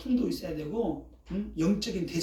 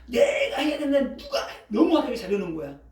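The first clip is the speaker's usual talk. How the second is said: louder, mock-indignant complaint; jealous outrage; 3 semitones higher, 5 dB louder than usual. Church member upset at being outdone, jealous outrage. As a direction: act out an offended church flower arranger. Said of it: "눈이 뒤집어진 거지".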